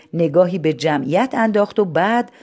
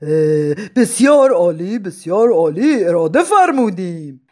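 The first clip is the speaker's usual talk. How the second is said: serious; 4 dB louder than usual. Acted. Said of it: "با لحنی جدی گفت".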